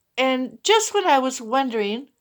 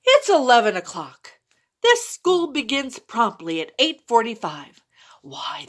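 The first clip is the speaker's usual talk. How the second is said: lightly voiced strict teacher, dropping to a hushed scold; a hint of a schoolmarm demanding an excuse; teacher scolds the late boy, mildly stern; 3 dB louder than usual. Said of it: "said Miss Block".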